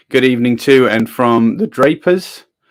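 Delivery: ordinary delivery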